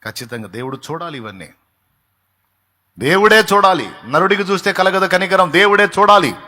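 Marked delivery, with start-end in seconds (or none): 3.0-6.3 loud, higher proclaiming voice; loud fervent proclamation; preaching at full force. Acted. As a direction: hammer it home to the congregation.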